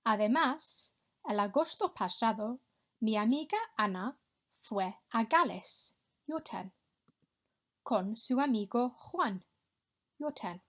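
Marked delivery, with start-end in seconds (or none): 0.0-5.9 clear, careful Spanish for the class to copy; model Spanish pronunciation. Shown as a demonstration. Teacher modelling a Spanish line for pupils to repeat, clear and careful. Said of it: "echo my pronunciation". 7.8-9.4 clear, careful Spanish for the class to copy; model Spanish pronunciation. Shown as a demonstration. Teacher modelling a Spanish line for pupils to repeat, clear and careful. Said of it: "echo my pronunciation".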